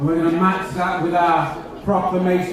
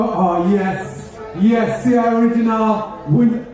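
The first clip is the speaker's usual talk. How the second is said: light Caribbean lilt on the appeal; put-on Caribbean accent. MC coaxing Windrush elders, in a light Caribbean accent. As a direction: slip into a Caribbean accent to coax stories. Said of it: "best talk back in my normal English accent".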